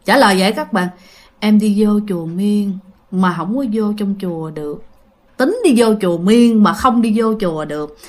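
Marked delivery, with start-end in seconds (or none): 1.4-4.8 low, hollow, slightly softer answer; low deep voice. Retold or imitated. Ghost girl repeats her answer in a low deep voice. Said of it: "cổ trả lời một cái giọng trầm trầm".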